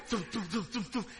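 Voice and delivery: quick repeated thumps mimicking running feet; imitated running footsteps. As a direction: voice the patter of someone running. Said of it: "the sounds of somebody running".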